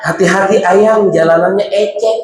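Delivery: spoiled lisping newlywed talk, dropping sounds; cadel baby talk. Retold or imitated. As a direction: babyish coo with dropped consonants, ayang and ecek. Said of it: "ngomongnya kolokan".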